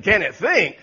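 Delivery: booming with laughter as God; laughing God. Acted. Preacher's God laughing off the angel's doubt.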